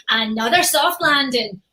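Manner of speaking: slow, deliberate game-voice line; quoting his own game line, slow and firm; character catchphrase. Shown as a demonstration. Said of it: "all I have to say is".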